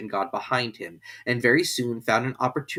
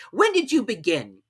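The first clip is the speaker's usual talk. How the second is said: very high, loud royal command; a pompous king giving orders; King ordering the herald to read; King's voice; 10 semitones higher, 4 dB louder than usual. A narrator's reading. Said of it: "said the king".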